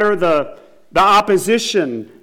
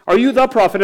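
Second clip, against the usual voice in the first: higher pitch, "the" punched; stress on "the"; 5 semitones higher, 4 dB louder than usual. Shown as a demonstration. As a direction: repeat it raised, leaning on "the". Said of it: "Notice they didn't ask him".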